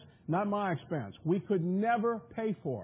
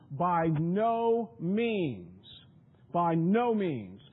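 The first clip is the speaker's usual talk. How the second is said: slow, stretched-out cry of By no means; drawn-out proclamation; much slower than usual. Retold or imitated. Paul crying out to the church, slow and stretched. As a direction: stretch every word as if Paul shouts it. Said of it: "He is screaming at the top of his lungs".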